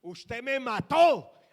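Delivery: loud, slow, anguished cry; tearful accusation. Retold or imitated. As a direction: wail it out like she did through tears. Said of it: "me dijo así, llorando". (acusación llorosa, fuerte y lenta)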